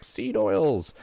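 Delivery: imitating an alarmed critic; mock outcry. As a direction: pipe up like an outraged commenter. Imagined commenter objecting to McDonald's.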